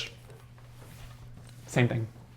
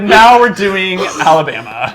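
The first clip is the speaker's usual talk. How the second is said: mock Southern; 3 semitones higher, 5 dB louder, slower than usual. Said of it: "And he said".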